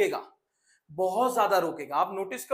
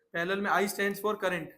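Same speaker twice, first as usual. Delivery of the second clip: slow teaching; slower than usual. Shown as a demonstration. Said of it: "teacher stresses mnemonic".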